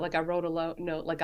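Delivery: ordinary talk, nothing marked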